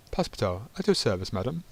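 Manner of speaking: courtly greeting with swooping pitch; lightly hammed-up valet's greeting, lifting at the end; gallant introduction. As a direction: introduce yourself with a mock-formal flourish. Valet introduces himself gallantly with a bow.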